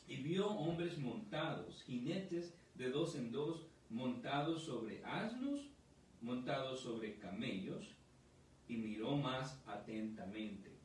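slow, deliberate Bible reading to the congregation; scripture reading. Acted. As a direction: pastor reading the verse slowly to his church. Pastor reads scripture aloud.

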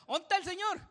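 high, loud mock wail of a lost worshipper; hammed-up high cry of someone searching; mock searcher's cry. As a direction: ham up a clueless seeker calling out. Mocking people searching with cattle.

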